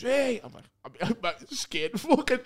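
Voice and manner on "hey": shout. Retold or imitated. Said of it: "He goes".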